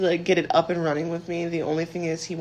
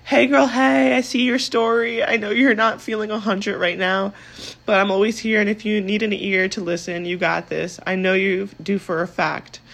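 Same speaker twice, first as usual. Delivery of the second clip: bright, louder read of a friend's cheerful text; 2 semitones higher, 4 dB louder than usual. Retold or imitated. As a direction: read it out like the upbeat friend who sent it. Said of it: "She goes".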